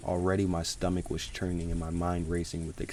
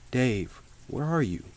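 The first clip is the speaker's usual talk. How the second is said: high, raised call into the crawl space; 6 semitones higher, 4 dB louder than usual. A narrator's reading. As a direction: call out loudly, searching for a missing coworker. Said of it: "I called out".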